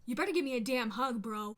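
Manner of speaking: playfully bossy, push it out; joking scolding of her boyfriend; mock demand. Demanding a hug from fiancé.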